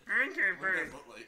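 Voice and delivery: laughing. Real, not acted. Asking amid laughter.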